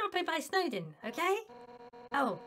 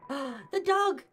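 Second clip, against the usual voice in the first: surprised gasp; 4 dB louder than usual. Real, not acted. Gasps at the dog.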